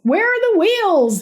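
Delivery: loud, high panicked yell; desperate loud yell. A narrator's reading. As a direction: shout the orders in a panic. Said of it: "he yelled".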